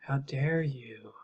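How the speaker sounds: slow, drawn-out mock affront; mock appalled. Host mimicking appalled CIA defenders, in mock indignation. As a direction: play at being scandalized, without raising the volume. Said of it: "we're just appalled at this".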